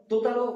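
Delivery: তোতারো with the tongue tip between the teeth; lisped sa demo. Shown as a demonstration. Teacher shows the lisping sound of সা. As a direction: lisp it lightly. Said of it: "সাটা হালকা তুতলা টাইপের হবে, যেমন".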